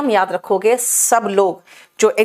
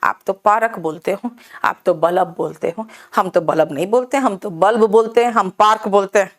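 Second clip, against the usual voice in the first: teasing Delhi folks; 3 semitones lower than usual. Retold or imitated. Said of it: "टांग खींचने के लिए".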